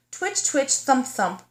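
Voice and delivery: trapped bunnies calling for help; a touch of fright, calling out; crying for help. Acted. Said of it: "cried her bunny family".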